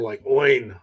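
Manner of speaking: Oin with an oy in the middle; Oin pronunciation. Shown as a demonstration. Host showing how the coach says Owen. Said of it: "Shane pronounces with an I like the middle".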